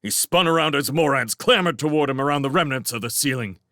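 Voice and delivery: ordinary delivery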